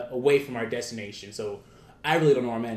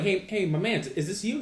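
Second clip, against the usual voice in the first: higher-pitched retold hail; calling out; 7 semitones higher than usual. Calling to the driver in story.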